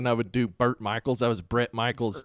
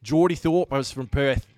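lightly put-on Australian accent; Geordie Thorpe. Friend recalling his bar character, in an Australian accent. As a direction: play a surfer from Perth with an Australian accent. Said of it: "I would do the Australian accent".

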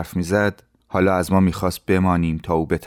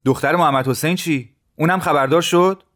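put-on higher, anxious young voice; Ehsan asking; 10 semitones higher than usual. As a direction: ask worried about the daughter. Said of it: "احسان از او پرسید".

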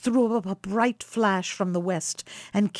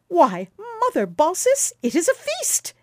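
put-on much higher, merry young man's cry; laughing exclamation; 10 semitones higher, 6 dB louder than usual. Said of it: "exclaimed Quicksilver, laughing".

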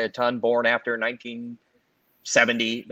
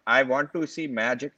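put-on Indian accent; 2 semitones higher than usual. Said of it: "I shouldn't do the Indian accent".

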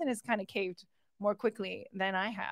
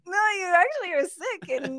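high, loud scolding self-talk; stern inner voice; 9 semitones higher, 6 dB louder than usual. Retold or imitated. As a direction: lecture yourself like a parent. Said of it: "talk myself through".

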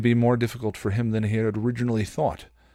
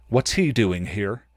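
Riley voice; 4 dB louder, slower than usual. Acted. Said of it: "That's my Riley voice".

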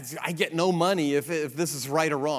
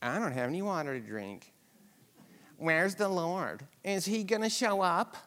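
mock complaint; 2 semitones higher, 5 dB quieter than usual. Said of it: "you're going".

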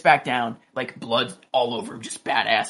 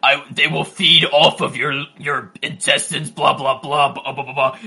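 mock spitting threat; 6 dB louder than usual. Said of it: "he's spitting".

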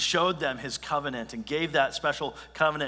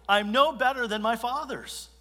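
higher self-pitying sigh; self-pitying lament; 7 semitones higher than usual. Retold or imitated. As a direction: sound defeated, a bit higher. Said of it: "Elijah's just self-pity overtakes him".

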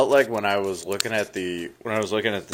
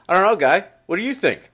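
imitating teacher; 9 semitones higher, 4 dB louder than usual. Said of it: "he goes".

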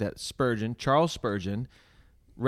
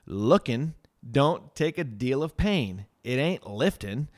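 lightly voiced homespun preacher, a bit higher; slow, folksy pulpit address, lightly acted; simple lay preacher; 4 semitones higher, slower than usual. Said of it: "I remember how he said".

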